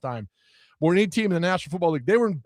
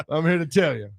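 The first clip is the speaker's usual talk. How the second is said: Stephen A. Smith impression. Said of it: "She's Stephen A. Smith".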